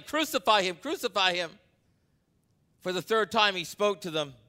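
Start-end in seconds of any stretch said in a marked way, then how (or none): 0.0-1.6 high, louder chant of the crowd; shouting crowd. A narrator's reading. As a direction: call it out as the mob. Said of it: "they kept shouting".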